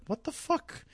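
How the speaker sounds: high-pitched, incredulous outburst; mock disbelief. Fan reacting to a character's sudden death, mock disbelief. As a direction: squeak it out in hammed-up disbelief.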